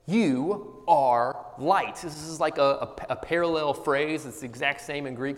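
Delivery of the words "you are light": "You are light" drawn out slowly, each word weighed; slow declaration. Shown as a demonstration. Preacher quoting Jesus to the congregation, slow and weighty. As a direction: read the line slow and deliberate. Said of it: "so the same thing applies to that word you".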